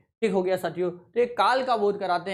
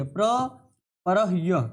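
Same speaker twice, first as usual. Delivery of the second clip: प्रपरह्य drawn out very slowly; slow dictation; much slower than usual. Shown as a demonstration. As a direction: stretch प्रपरह्य syllable by syllable. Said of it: "देख लीजिएगा".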